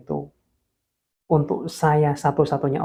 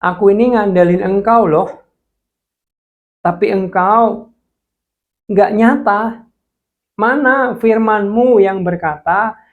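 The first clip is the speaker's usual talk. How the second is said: angry complaint to God; 4 semitones higher, 5 dB louder than usual. Retold or imitated. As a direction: throw the question at heaven in protest. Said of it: "Saya ngomong gini". (protes marah kepada Tuhan)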